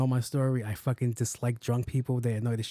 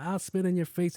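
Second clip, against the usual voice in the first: high mocking kid voice; rude kid; 5 semitones higher than usual. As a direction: toss the kid's threat up high. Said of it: "he's like".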